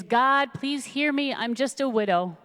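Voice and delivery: lightly pleading prayer, pitch lifted; acted prayer. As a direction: appeal humbly to God, as in a retold story. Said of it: "She prays".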